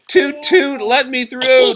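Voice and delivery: high, loud toot and demand; demanding tugboat. Acted. Tugboat to the log men, high demanding toots. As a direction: insist on passing, pitched high. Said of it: "demanded Scuffy".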